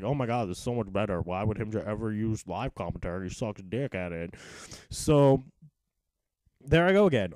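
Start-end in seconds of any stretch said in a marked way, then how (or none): 0.0-4.3 mocking viewers. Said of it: "everybody's like".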